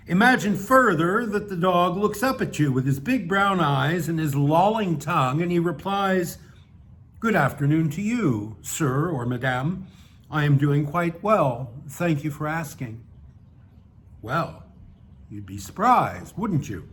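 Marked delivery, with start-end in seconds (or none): 0.1-6.4 measured, emphatic read-aloud narration; story narration. Acted. Reading a satirical piece to an audience, measured narration. 7.2-13.0 lightly voiced courteous talking dog; reply with mildly stiff formality; polite, somewhat stiff dog. Talking dog answering a passerby, mildly stiff and polite. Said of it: "somewhat stiff conversation".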